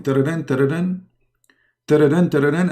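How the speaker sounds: quick rolling ring in the speaker's own voice; sing-song ring, lightly imitated; imitated ringtone. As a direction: mimic a phone ringing. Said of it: "he call him".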